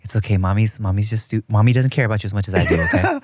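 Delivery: low, mock-consoling talk to a baby; mock parent soothing. Father consoling baby at mother's expense, mock soothing. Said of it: "Your baby's like".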